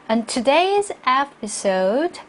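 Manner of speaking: "today's" hit firmly in a slow reading; stress on today's. Shown as a demonstration. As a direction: lean on "today's", measured teacher's model. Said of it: "오늘 강조해 주시고요". ("today's"를 강조해서 천천히)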